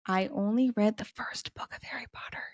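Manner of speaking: softly trailing into a near whisper; hushed confession. Pretend. Host makes a little confession to listeners, hushed. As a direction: let the confession sink away quietly.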